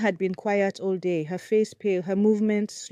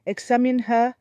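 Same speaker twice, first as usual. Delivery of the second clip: loud, higher order; commanding; 6 semitones higher, 6 dB louder than usual. Acted. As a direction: command it firmly. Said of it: "Mama Obi commanded".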